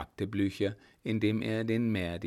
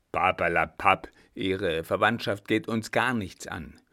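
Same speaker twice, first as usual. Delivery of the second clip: lightly voiced marshal, brusque and insistent; a hint of an impatient commander; blunt old marshal; 4 dB louder than usual. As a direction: brush him off, then lay out the charge. Blücher cuts in and accuses.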